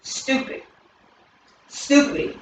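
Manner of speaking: hissed whisper of stupid; whispered label. Shown as a demonstration. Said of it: "Name calling, the labeler".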